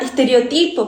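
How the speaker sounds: "estereotipo" stressed on the next-to-last syllable, estereo-TI-po; "estereotipo" as es-te-reo-TI-po. Shown as a demonstration. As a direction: say "estereotipo" Spanish-style, with the weight on TI. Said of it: "diferente sílaba tônica".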